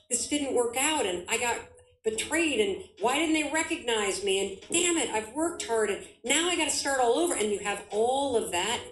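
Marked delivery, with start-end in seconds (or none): 0.1-7.3 higher, mock-frustrated venting; frustrated inner rant. Voicing an entrepreneur's frustration after setbacks, higher and venting. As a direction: vent like a burnt-out founder. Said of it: "and then you think".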